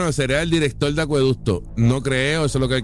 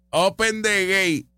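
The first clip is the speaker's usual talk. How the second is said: drawn-out, slower imitation of Open the gate; slow mocking quote; 5 semitones higher, slower than usual. Host mocking a politician's famous phrase, slow and teasing. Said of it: "Del Open the gate de Juan Dalmau".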